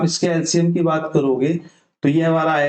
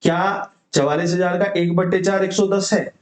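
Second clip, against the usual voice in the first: asks it as a quiz to himself, weight on सौ; checking question. Shown as a demonstration. Teacher asks the class if सौ is right, questioning. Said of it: "मैंने बोला".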